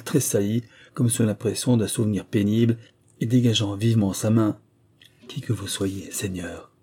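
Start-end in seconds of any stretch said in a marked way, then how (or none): 5.3-6.7 softly, slightly lowered voice; almost in a low voice. A narrator's reading. Stranger to her rescuer, fearing discovery, hushed. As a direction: drop to a hushed, near-low voice. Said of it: "dit-elle presque à voix basse".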